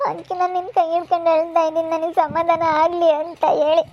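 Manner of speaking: tearful, overwhelmed outpouring; about to cry. Acted. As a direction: let the tears come as you talk. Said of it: "ನನಗೆ ಯಾಕೋ ತುಂಬ ಅಳು ಬರ್ತೈತೆ".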